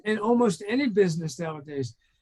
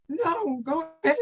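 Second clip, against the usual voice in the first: quoting the caller's reply; 9 semitones higher than usual. Retold or imitated. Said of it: "do you mind me sharing a few things?".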